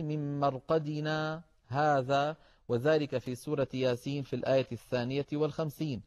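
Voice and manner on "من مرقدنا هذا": slow Quranic recitation with a pause after هذا; slow recited demo. Shown as a demonstration. Teacher demonstrating the sakt, slow recitation. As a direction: recite من مرقدنا هذا slowly, stopping on هذا. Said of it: "الموضع الثاني".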